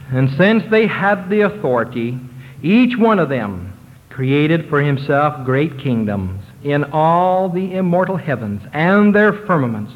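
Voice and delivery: slow, weighty reading of an ancient text; solemn scripture reading. Acted. Preacher reads the temple words to his congregation, slow and solemn. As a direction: let each phrase land slowly and reverently.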